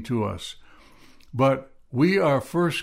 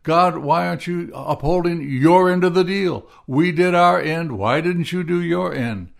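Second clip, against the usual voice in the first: raised, louder anguished demands to God; retold yelling at God; 4 semitones higher, 3 dB louder than usual. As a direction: replay the angry plea, a bit louder and higher. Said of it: "yelling at God".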